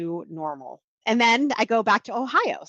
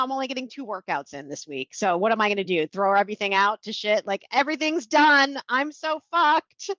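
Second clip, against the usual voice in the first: mock despair; 2 semitones higher than usual. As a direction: moan it like it's the end of the world. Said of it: "And it's like".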